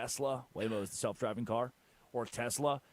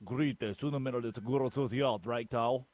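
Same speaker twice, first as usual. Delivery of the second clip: put-on Southern-accented Spanish. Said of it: "he had this thick Southern accent".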